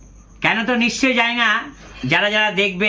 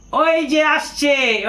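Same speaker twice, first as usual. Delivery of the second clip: drawn-out, higher mocking call; teasing call; 6 semitones higher, much slower than usual. Colleague teasing him at the taxi stand, mocking sing-song. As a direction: tease him as he arrives. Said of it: "ঠাট্টা করে বলছে".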